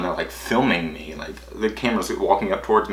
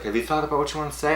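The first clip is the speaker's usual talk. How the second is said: sweet; 7 semitones higher, 4 dB quieter, faster than usual. Retold or imitated. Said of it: "she was so sweet".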